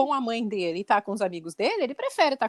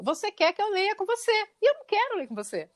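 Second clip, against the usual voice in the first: blunt son; 8 semitones higher than usual. Retold or imitated. Son's blunt refusal message retold.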